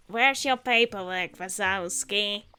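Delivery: lightly voiced slow, drawn-out Roz; a hint of Roz's slow drone; Ross voice. Lightly voiced Roz demanding paperwork from Mike. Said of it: "let me get my best Ross voice going again".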